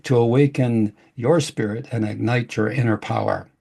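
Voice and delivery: smooth announcer read of the show opening; podcast intro. Acted. Host opening the show for listeners, announcer voice. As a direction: welcome listeners like a radio host.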